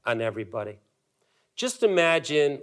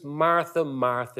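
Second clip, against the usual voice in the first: tender Jesus. Acted. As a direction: say her name gently twice. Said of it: "you can kinda hear the tenderness in his voice".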